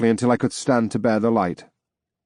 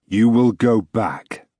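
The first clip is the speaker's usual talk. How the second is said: booming voice; slower than usual. Acted. Ghost in the crowd commanding, booming slowly. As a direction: boom it out like a decree. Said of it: "boomed a voice deep in the crowd".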